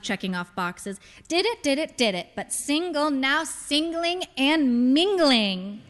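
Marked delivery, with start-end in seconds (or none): 1.3-5.8 higher, teasing singsong, slowing at end; playful sing-song. Acted. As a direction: tick them off with a playful lilt. Mother mimes checking off boxes.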